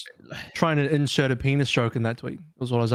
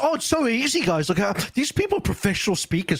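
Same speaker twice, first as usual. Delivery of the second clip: mocking smug tone; 5 semitones higher than usual. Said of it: "they make it so".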